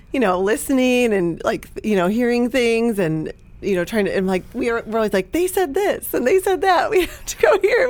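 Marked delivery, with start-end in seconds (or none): 5.3-7.9 high-pitched, eager quote; eagerly mimicking excited podcast fans; excited retelling. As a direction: act out being excited about every tip. Retelling their eager podcast reactions.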